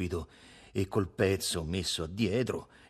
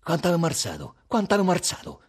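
high, louder repeated question; eager, raised-pitch asking; excited questioning; 8 semitones higher, 6 dB louder, faster than usual. A narrator's reading. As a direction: press for an answer, louder and higher.

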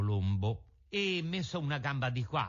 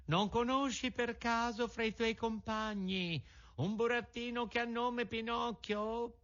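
pigeon calling down; 11 semitones higher than usual. A narrator's reading. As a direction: call down gently from the sky. Pigeon asks about Pinocchio.

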